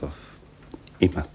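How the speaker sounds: hushed, resigned echo. Acted. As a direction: let "auf immer" sink away. Repetition sinking to a murmur.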